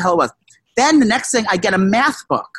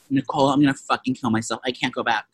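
low, much softer mortified mumble; embarrassed groan; 7 semitones lower, 5 dB quieter than usual. Real, not acted. Caught out by friend, quiet mortified mumble. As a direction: sink into embarrassment. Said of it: "this is so embarrassing".

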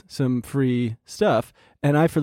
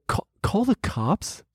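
slow, higher-pitched disbelieving question; incredulous echo; 4 semitones higher, slower than usual. Retold or imitated. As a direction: stammer it back in disbelief. Incredulous echo of friends' advice.

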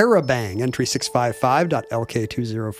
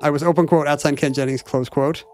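spoken punctuation, every mark read aloud; dictating. Pretend. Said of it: "reading punctuation aloud".

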